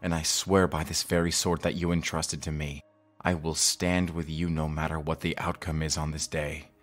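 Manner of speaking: soft, low pledge of loyalty; hushed sincere vow. Acted. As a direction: swear it privately to your old master. Pupil's private vow to master.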